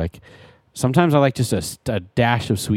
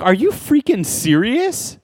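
high, slow incredulous yell; retold disbelieving shout at the barista; mock yell; 10 semitones higher, slower than usual. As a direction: retell the yell back at the barista, high and drawn out. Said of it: "I yelled back at her".

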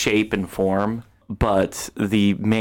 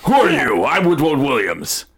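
slightly raised creature voice; little woodland spirit; 3 semitones higher, 4 dB louder than usual. Acted. Spirit questions a second stranger, in a lightly voiced creature tone. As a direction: challenge a stranger as a small spirit. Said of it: "he goes".

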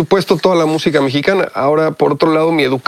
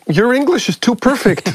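a hint of teasing American lawyers, pitched up; mocking gringos; 7 semitones higher than usual. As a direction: lightly mimic the mockers. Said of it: "Decían, se burlaban de él".

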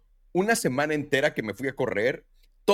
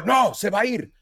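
shooing; 9 semitones higher, 5 dB louder, slower than usual. Retold or imitated. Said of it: "Y yo".

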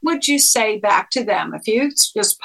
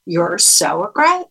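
lower, calm repeat of their words; 3 semitones lower than usual. Shown as a demonstration. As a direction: say it back calmly, without attacking. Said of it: "say it in a calm way".

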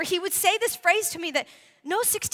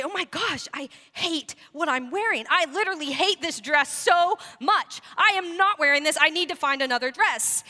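re-enacted disgust at the mirror, building in force; disgusted teen self. Retelling hating her prom dress at the mirror, mock disgust. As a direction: play up your younger self's disgust. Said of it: "I'd get this look of disgust".

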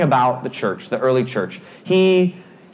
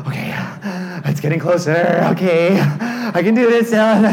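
acted nervous self-talk with gasps; steady yourself between anxious breaths, slowing at the end; mock nervous; 3 semitones higher than usual. Rider getting closer to the cars, nervously hyping himself.

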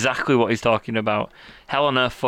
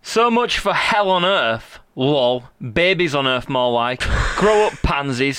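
mocking comment read. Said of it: "here we go".

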